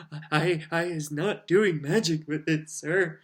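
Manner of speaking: high squeaky house-elf voice, pleading; a tearful elf squealing her innocence. Acted. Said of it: "squealed Winky".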